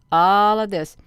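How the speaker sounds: breathy whisper, pointing something out; whispered aside. Real, not acted. Streamer whispers to viewers about the search results, secretive whisper. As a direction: hush it like a secret. Aside while scrolling the page.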